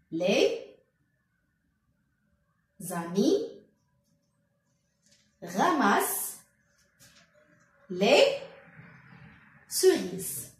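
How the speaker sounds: Les amis ramassent les cerises, each word set apart by long pauses; counting words slowly. Shown as a demonstration. A teacher counting words along with the class, slow and spaced. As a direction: say each word alone so children can count. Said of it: "comptez avec moi".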